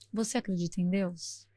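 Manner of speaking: put-on quiet, intense voice of the old man; deep, searching question. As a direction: ask it looking into her soul. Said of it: "olhando dentro da minha alma".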